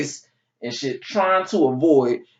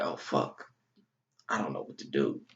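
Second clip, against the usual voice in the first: mock dismay; 10 semitones lower, 9 dB quieter than usual. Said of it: "And I was like".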